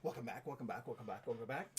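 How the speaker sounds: Graham Norton. Retold or imitated. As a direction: start as rapid patter, then stretch it out high and loud. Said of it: "an impersonation of Graham Norton".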